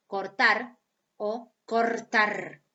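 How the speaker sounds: slow "cortar" with a tapped r, then "cortar" with a rolled trill; tap then trill, slowly. Shown as a demonstration. Teacher to class, slowly showing both pronunciations. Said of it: "se puede decir de la, de las dos maneras".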